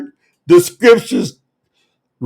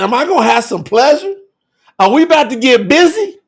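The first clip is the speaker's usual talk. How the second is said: higher-pitched, playfully incredulous question; mock amazed wife; 5 semitones higher, faster than usual. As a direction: lightly act out her disbelief. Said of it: "'cause she said".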